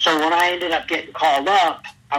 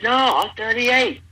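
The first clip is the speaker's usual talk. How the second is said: retold reply; 9 semitones higher than usual. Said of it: "I said".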